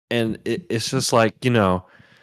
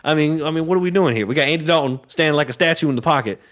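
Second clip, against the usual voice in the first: exasperated rant; 5 semitones higher than usual. Real, not acted. Rant about benching the quarterback.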